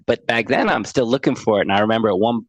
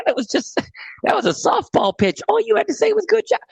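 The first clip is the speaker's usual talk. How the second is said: near tears. Retold or imitated. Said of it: "And I started crying".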